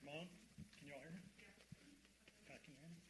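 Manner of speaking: muffled, distant mic sound; into a fan. Real, not acted. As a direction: voice blown through fan noise. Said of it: "I sound like I'm talking into a fan".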